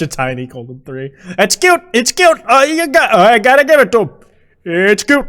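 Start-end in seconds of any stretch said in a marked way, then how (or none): 1.4-5.3 shaky and out of breath; breathless, shaky voice. Real, not acted. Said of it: "Sorry, I'm out of breath and shaky".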